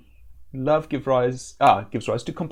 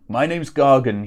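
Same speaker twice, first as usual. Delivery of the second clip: put-on loud, gruff old sailor; gruff old fisherman; 7 dB louder than usual. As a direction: play the salty old sea dog. Player voices old sailor.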